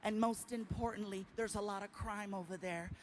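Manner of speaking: lightly voiced Indian accent warning; a mild Indian-accented caution, sinking to a whisper. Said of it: "I love his accent".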